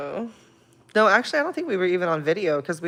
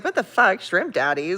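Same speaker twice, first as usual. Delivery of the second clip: baffled quote; 4 semitones higher, 4 dB louder than usual. Retold or imitated. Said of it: "he was like".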